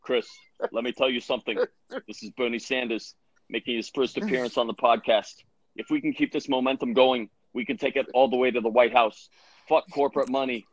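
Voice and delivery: lightly voiced stump-speech politician; a hint of an old senator's oratory; Bernie Sanders impression. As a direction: deliver it like a campaign promise, phrase by phrase. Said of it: "My Bernie Sanders is not too".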